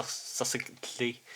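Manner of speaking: "succinctly" stumbled over, softly, as suh-sinkt-lee; hesitant mispronunciation. Real, not acted. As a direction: feel out "succinctly" slowly with no first k sound. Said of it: "I don't know how to say that properly".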